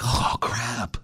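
soft, dismayed under the breath; dismayed mutter. Retold or imitated. Finding the dead bird in the cage, soft dismayed mutter. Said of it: "I'm like".

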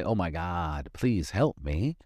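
pleading, slow and small; a hint of a desperate prayer; mock begging prayer. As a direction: beg like you're desperate. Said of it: "not say".

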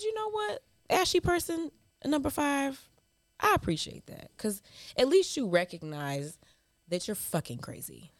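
high, sugary fake thanks; mock gracious reply. Host retells her reply to the emailer, high and falsely sweet. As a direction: sweetly thank them, then twist the knife.

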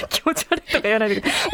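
rapid protest through laughter; laughing protest. Real, not acted. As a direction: object quickly while laughing. Playful protest at host's insult. (笑いながら早口で抗議)

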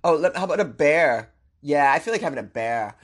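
bored pop star. Retold or imitated. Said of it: "they're like".

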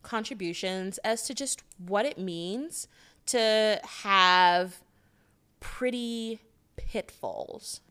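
put-on soft, affected pretty-girl persona. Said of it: "You're gonna do this voice the whole episode".

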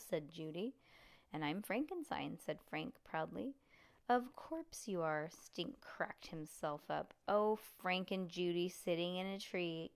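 put-on reading a chapter book to kids; story narration. A narrator's reading. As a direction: read it like bedtime storytime. Reads a chapter book aloud.

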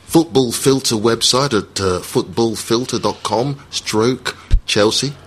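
mock announcer read, slowing at the end; hammed-up radio voiceover plugging the website; voiceover accent. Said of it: "What was that accent you were doing then".

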